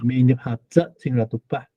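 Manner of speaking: 扎 drops first then climbs back up; fall then rise. Shown as a demonstration. Teacher modelling the falling-then-rising tune of 哈扎. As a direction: dip on 扎, then pull the pitch up. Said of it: "先降下来，然后再拉上去了".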